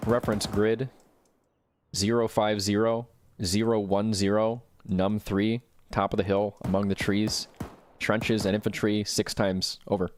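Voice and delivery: slow, measured grid coordinates over radio; calm radio call for fire. Acted. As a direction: read each number out clearly. Calling in airstrike over radio.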